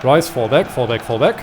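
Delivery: shouting orders over battle. Real, not acted. Urgent retreat order in battle.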